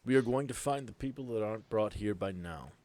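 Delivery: lightly voiced leader giving orders; firm, deliberate commander; Boyd's voice. Game master as Boyd sending players to search, lightly voiced commander. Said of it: "I love this voice".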